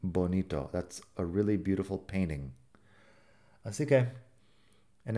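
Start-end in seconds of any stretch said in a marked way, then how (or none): 0.7-2.5 "beautiful" with only a light T, not a hard one; T barely touched. Shown as a demonstration. Teacher demonstrating a light T in "beautiful". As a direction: say "beautiful" with the T softened, just a hint of it. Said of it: "digo la T un poco, pero no mucho".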